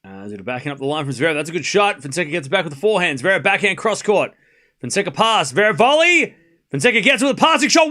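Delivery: quick running commentary, climbing in pitch; tennis play-by-play. Real, not acted. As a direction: follow the rally briskly, building to the winner.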